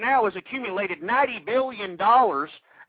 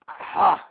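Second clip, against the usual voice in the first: stressed exhale; 2 semitones lower than usual. Real, not acted. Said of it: "the stress".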